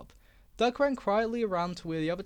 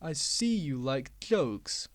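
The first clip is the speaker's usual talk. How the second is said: oily voice; 4 semitones lower, much slower than usual. Acted. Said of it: "he said in his oily voice".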